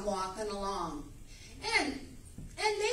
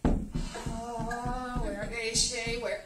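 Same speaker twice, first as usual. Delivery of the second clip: angels searching; much slower than usual. Retold or imitated. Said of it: "this is what they're doing".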